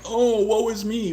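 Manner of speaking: high, loud, slow mock wail; mock whining. Streamer mocking the cat crying outside the door, hammed-up wail. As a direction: ham up the cat's self-pity. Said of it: "screaming his head off, like".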